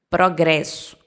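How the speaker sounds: "progresso" com O final soando U; pronúncia portuguesa. Shown as a demonstration. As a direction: diga "progresso" terminando em U. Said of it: "ó o U no final, no som". ("progresso" à portuguesa, final em U)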